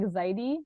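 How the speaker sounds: Zaidi with a D sound in the middle; D instead of V. Shown as a demonstration. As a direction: say Zaidi as in Spanish, the V turned to D. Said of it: "like with a D instead of a V".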